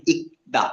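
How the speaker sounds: ইকদা with only the K of the double batchim sounded; ইকদা, silent L. Shown as a demonstration. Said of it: "রিয়লের উচ্চারণ করি নাই".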